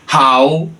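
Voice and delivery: very slow, word by word; slow demonstration. Shown as a demonstration. Teacher repeats the third phrase for learners, slow demonstration. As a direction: separate each word clearly.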